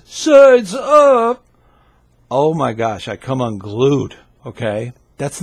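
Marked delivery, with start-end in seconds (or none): 0.0-1.4 high, loud shouted call; mock yell. Leader yelling at noisy scouts, loud shout. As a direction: bellow it like an impatient leader. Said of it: "don't yell at the top of your lungs".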